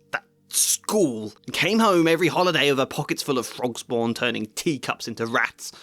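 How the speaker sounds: bitter rant, mostly even; a lightly voiced resentful aunt; Petunia's rant. Shown as a demonstration. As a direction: read the original rant. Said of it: "The original is this".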